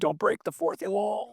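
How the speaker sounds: slow, breathy conspiratorial whisper; stage whisper. Pretend. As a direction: hush it like a secret warning. Joking stage whisper to cohost.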